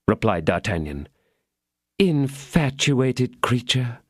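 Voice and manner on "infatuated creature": smiling. Acted.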